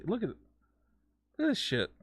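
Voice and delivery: high, loud shocked cry at the total; stunned disbelief. Real, not acted. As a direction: yelp it out in real disbelief.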